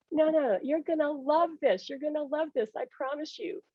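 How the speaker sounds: imitated soothing insistence; coaxing reassurance. Husband insisting she will love it.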